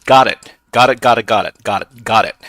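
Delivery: excited. Real, not acted. Breaking into the server.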